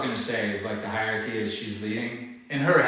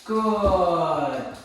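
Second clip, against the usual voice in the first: high dog praise; 8 semitones higher, 7 dB louder, much slower than usual. Real, not acted. Trainer praising her dog.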